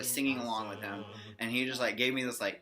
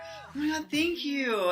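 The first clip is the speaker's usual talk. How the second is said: squeaky, much higher gush of thanks; mock gushing fan boy; 13 semitones higher than usual. Band member thanking a fan, imitated in a squeaky high gush. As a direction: imitate his over-the-top thank you, way up high. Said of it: "he was like".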